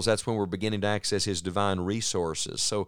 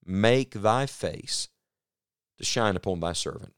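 prayerful. Acted. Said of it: "Make this prayer your prayer".

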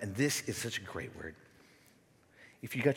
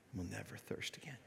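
soft whisper to close the verse; whispered promise; 13 dB quieter than usual. Acted. Pastor ending Jesus's bread of life quote, whispered. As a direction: breathe out the last words.

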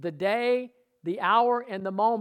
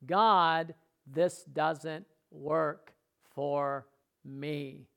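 slow, drawn-out whining to God; whiny complaint demo; much slower than usual. Shown as a demonstration. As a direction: drag it out like a defeated complaint. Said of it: "See what I'm saying?".

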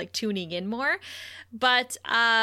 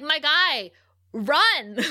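urging; 4 semitones higher, 4 dB louder, much slower than usual. Retold or imitated. Urging a character to run.

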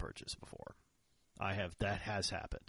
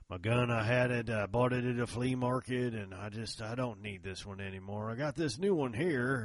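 put-on old country boy; 3 semitones higher, 5 dB louder than usual. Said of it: "from an old boy out there".

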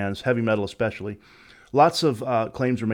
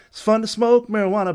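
high, loud eerie sing-song; imitating the hidden backwards message; 9 semitones higher, 4 dB louder than usual. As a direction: mimic the garbled reversed vocal, pitched up. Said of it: "like that".

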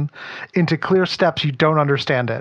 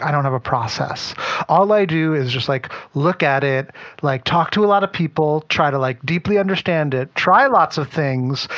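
laid-back dreamy designer talk; hippie guru voice. Retold or imitated. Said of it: "I like how you improv there into a hippie guru voice".

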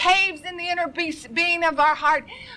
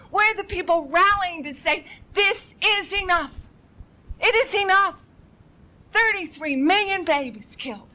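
tearful plea; 3 semitones higher than usual. Real, not acted. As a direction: voice catching with tears, pitch climbing. Preacher pleading over the nation.

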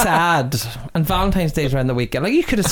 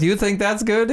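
higher, badly faked French accent; 6 semitones higher than usual. Host restarts the joke as the Frenchman, bad French accent. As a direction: have another go at a French accent. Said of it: "I can't do accents".

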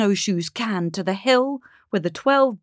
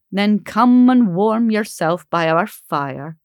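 slow, gentle invitation; kindly; 5 dB louder than usual. Acted. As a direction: soothe the frightened girl. December comforts the cold girl.

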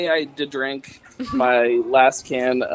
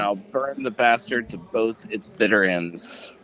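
sexy voice. Pretend. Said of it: "Remember, sexy".

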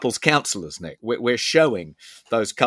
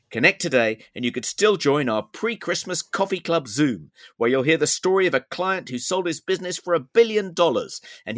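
ad read in a sponsor's voice; performed first-person advert read; Thor; 3 semitones higher than usual. Acted. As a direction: read out the sponsor's pitch with lively rises and falls. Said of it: "then it goes into Thor's voice".

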